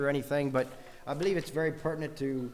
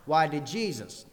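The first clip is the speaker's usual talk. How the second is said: "Jesus" stressed as the key word; 3 dB louder than usual. Shown as a demonstration. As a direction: land firmly on "Jesus". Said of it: "different emphasis on each of the words".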